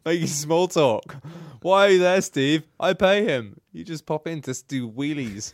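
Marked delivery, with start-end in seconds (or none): 1.6-5.5 high, loud mock-indignant therapist. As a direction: complain like a fed-up therapist. Imitating his therapist to Steve.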